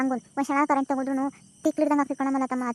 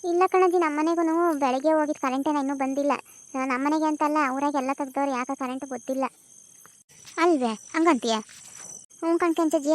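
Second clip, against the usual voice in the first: cheerful granddaughter answering grandma; young village woman. Acted. (ಸ್ವಲ್ಪ ಎತ್ತರದ ಧ್ವನಿಯಲ್ಲಿ ಹುಡುಗಿ)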